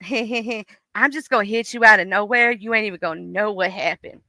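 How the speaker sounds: a lightly voiced, mean little threat; sneaky depression voice. Depression warning its owner, mild mock menace. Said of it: "And depression like".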